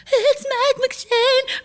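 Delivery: high, slow starstruck hush; awestruck whisper-gasp. Retold or imitated. Students starstruck by a famous guest, high slow awe. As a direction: breathe the name like a fan meeting a legend. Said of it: "we were all like".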